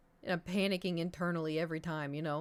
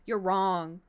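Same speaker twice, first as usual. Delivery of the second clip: mock scold; 7 dB louder than usual. Real, not acted. Playful scolding.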